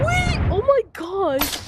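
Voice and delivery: high, startled yelp; surprised. Real, not acted. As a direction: cry out in surprise. Sudden surprise in game.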